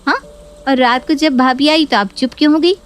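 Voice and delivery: lightly voiced nagging daughter; scheming daughter complaining. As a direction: whip up outrage about the sister-in-law. Neha needles her mother.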